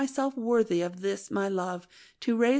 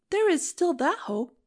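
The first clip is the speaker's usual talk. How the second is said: high, hopeful; cling to the hope gladly; joyful; 8 semitones higher than usual. Acted. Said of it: "I joyfully broke in".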